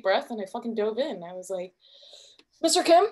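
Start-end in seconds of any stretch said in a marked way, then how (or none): 2.6-3.1 timid approach. Acted. Nervous approach to a celebrity.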